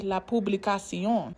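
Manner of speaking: "la publicación" in Spanish, not English; Spanish pronunciation. Shown as a demonstration. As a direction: say "la publicación" the Spanish way, "pu-bli-ca-SION" with the stress on the last syllable. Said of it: "to say the publication in Spanish".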